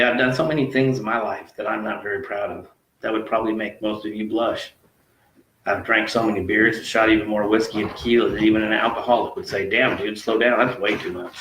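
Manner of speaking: measured, rhythmic spoken-word reading; poem recitation. Acted. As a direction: recite it as a confessional verse, line by line. Reads own poem aloud.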